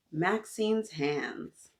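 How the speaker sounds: drawn-out, deliberate title; title announced slowly before the story; slow title read. Shown as a demonstration. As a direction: stretch the title out.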